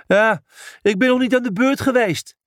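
hoge, gehaaste protestkreet; geschreeuwd. A narrator's reading. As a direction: schreeuw je protest snel en hoog. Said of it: "schreeuwde Brutus". (hoog en snel geschreeuwd)

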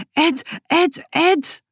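high, excited Ed, Ed, Ed; child calling out happily; joyful calling. A narrator's reading. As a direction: call him joyfully over and over. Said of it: "schreeuwt Boutje".

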